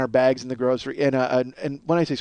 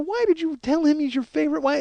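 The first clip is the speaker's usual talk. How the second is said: high-pitched baffled why; high incredulous question; 11 semitones higher, 4 dB quieter than usual. Retold or imitated. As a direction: plead for an explanation. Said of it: "I look at her, I go".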